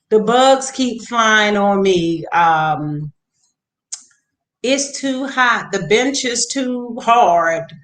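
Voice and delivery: a hint of a grumbling little boy; mock complaints about the bugs and the heat; imitating whiny kids. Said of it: "these boys complained about everything".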